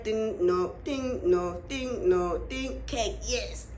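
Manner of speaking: low, sing-song "ding, no" rhythm; mock child scanning. Imitating the kid at the party scanning each thing. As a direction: play a kid ticking off items one by one.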